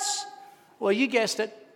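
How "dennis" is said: very high, long-drawn shout of a name; top-of-lungs shout. Retold or imitated. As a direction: scream the name out, holding it long. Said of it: "shouting at the top of my lungs".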